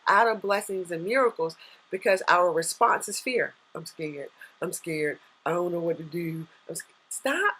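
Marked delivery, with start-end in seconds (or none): 3.8-6.9 small, hushed, frightened voice; scared. Pretend. Coach voicing a client frozen by fear, softly scared. 7.1-7.5 sharp high cut-off; abrupt stop. Real, not acted. Coach interrupting the fearful client, sharply high.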